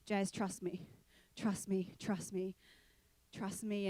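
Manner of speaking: quiet, reassuring inner voice; God's voice. Retold or imitated. God urging Jazz to take the leap, soft and gentle. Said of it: "I felt God say to me".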